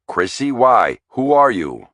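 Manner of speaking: panicked questions, voice jumping up; a father suddenly scared for his daughter. Acted. Father alarmed by strange visitors.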